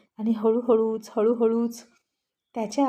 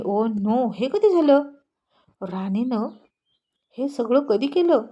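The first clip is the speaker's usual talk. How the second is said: shocked exclaim; 2 semitones higher, 4 dB louder, slower than usual. Acted. Man spotting lipstick on his cheek in the mirror, startled outburst. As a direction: blurt it out in sudden dismay.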